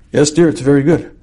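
acted lukewarm husband's reply; mildly half-hearted praise; unenthusiastic. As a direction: answer dutifully, without much enthusiasm. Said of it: "You didn't say that with much enthusiasm".

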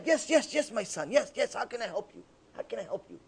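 softly voiced kindly sage; patient, gentle reply. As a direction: answer the caller softly, letting it fade. Patient sage answers the rude caller.

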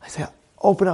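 normal talking voice

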